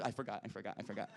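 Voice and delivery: sheepish murmur of forgetting; mock trailing off. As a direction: play dumb and let it die away.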